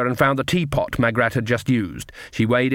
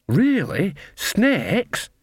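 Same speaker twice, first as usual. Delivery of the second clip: surprised; 8 semitones higher, much slower than usual. A narrator's reading. Shocked disbelief.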